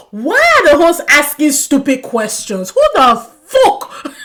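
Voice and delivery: loud, high outburst at silly questions; yelling in capitals. Retold or imitated. Vlogger yelling at the show hosts in caps. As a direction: bellow it like it is all caps. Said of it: "in capital letters".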